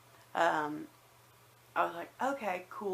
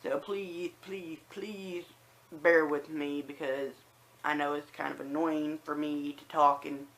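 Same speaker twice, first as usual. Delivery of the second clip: lisp from new dentures. Real, not acted. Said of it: "my list is, like, so much worse, and, like, I whistle when I say certain words".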